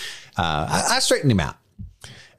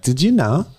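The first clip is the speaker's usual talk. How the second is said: put-on higher Valley Girl voice for a kid; mock Valley Girl; 6 semitones higher, 4 dB louder, slower than usual. Dad imitating his son, mock Valley Girl. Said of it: "I don't know why he's a Valley Girl".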